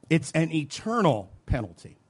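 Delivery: "eternal" given deliberate weight; stress on ETERNAL. Shown as a demonstration. Preacher correcting his wording to the congregation, emphatic "eternal". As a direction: draw out "eternal" before "penalty". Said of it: "Let's emphasize the word eternal".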